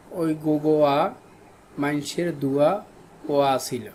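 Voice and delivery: a light Chittagonian accent on a sample sentence; Chittagong dialect. Shown as a demonstration. Teacher giving students a Chittagong dialect example, in a light Chittagonian accent. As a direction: say it the way people in Chittagong talk, lightly. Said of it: "যেমন বাংলাদেশের চট্টগ্রাম অঞ্চলের আঞ্চলিক ভাষারীতি".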